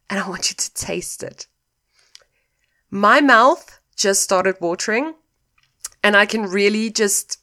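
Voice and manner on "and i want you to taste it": hushed whisper. Acted. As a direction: whisper it close and intimate. Climax of lemon visualization.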